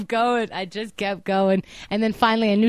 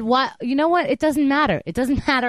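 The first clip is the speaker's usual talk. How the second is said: higher, exasperated protest; retold exasperation; 5 semitones higher than usual. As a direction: brush it off, fed up. Retold argument with the operator.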